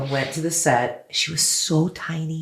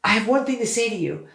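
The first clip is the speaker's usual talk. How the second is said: starstruck gush; 10 semitones higher than usual. Retold or imitated. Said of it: "And I said".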